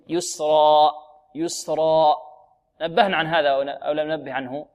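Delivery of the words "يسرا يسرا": يسرا with a measured long final a; two-count final alif. Shown as a demonstration. Teacher showing students the stop, measured open alif. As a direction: hold the end of يسرا briefly, then release openly. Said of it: "نقول".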